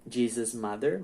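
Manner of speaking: "Jesus'" kept to JEE-zus before "mother"; no extra syllable. Shown as a demonstration. Teacher repeating the apostrophe-only example, "Jesus'" pronounced JEE-zus. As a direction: say "Jesus'" just like the plain name, without -iz. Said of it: "você coloca só o apóstrofo".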